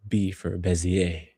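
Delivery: Bezier said French-style, ending in an open 'ay'; attempted French pronunciation. Shown as a demonstration. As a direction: say Bezier as 'beh-zee-ay', slowly. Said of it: "I'm positive that's not how you say it".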